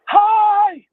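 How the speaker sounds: high strained yell. Shown as a demonstration. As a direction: push the hoarse voice to a yell. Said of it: "That was yelling".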